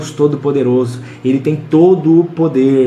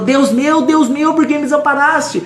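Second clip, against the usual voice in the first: much higher, ringing cry from the cross; 11 semitones higher than usual. Shown as a demonstration. Preacher showing Jesus on the cross, much higher full-voiced cry. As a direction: stretch up and cry it out to God. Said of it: "ele esticou e falou".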